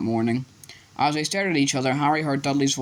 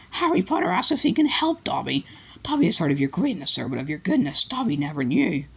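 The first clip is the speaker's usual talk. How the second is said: much higher awed elf; grateful elf; 5 semitones higher than usual. A narrator's reading. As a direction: elfo grato e meravigliato.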